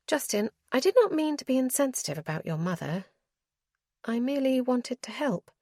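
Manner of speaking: a lightly voiced noblewoman, contrite; Clarissa's voice. Clarissa's voice in dialogue.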